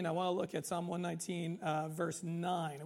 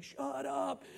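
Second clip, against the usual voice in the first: mock annoyed retort; 6 semitones higher than usual. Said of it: "and you're like".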